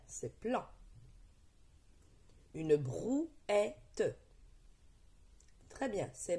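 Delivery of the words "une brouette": "brouette" in separated pieces, brou-è-te; syllable split. Shown as a demonstration. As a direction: sound out each syllable of "brouette". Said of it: "Dis la première syllabe de chaque mot". ("brouette" découpé en syllabes bien détachées)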